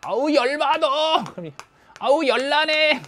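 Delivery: high, slow whiny voice of an overheated animal; hot panting dog. Acted. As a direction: whine like a dog melting in the heat. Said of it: "이런 식으로". (더위에 지친 동물 흉내)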